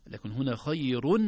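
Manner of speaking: خير with a clear nun, khayrun; clear tanween. Shown as a demonstration. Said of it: "تنوين ظاهر".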